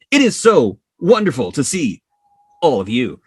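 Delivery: put-on gushing high voice for cute kids; delighted grandfatherly gush. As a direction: coo at the kids like a thrilled granddad. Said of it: "and he goes".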